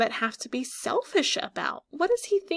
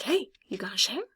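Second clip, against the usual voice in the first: whispered bird voice; faster than usual. Pretend. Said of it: "It's kinda like".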